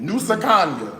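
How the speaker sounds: "Nusa Kanya" in an American accent; confidently Americanized "Nusa Kanya". Shown as a demonstration. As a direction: say the foreign name with plain American vowels. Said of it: "That's my American accent".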